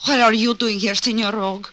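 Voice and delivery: lightly put-on broken Mexican accent, "Senor" rolled; a mother faking a thin Mexican accent; fake Mexican accent. Mother greets the detective in a faked Mexican accent. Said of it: "drop that broken-down accent".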